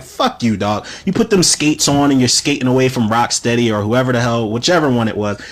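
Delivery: ordinary delivery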